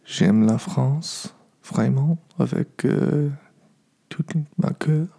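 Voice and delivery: rusty American French accent; careful English-speaker French; foreign accent in french. Real, not acted. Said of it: "mon français, c'est, euh, un peu, euh, merdique".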